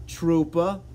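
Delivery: one word in a put-on Boston accent. Shown as a demonstration. Streamer showing off for viewers, Boston accent. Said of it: "You want me to do the Boston accent?".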